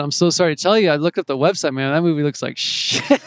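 a light South African accent, barely put on; hint of a South African accent for the girl. Girl on the phone turning him down, light South African accent. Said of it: "you know, in her accent".

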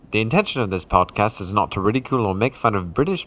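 posh mock British accent; hammed-up English accent; fake British accent. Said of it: "We just find it enjoyable to speak this way".

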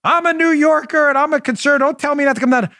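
lightly voiced, high indignant New Yorker; mock indignant listener. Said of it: "Some guy sent me a nasty gram".

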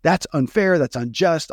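imitating his own journal rant; mock venting. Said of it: "just let myself go".

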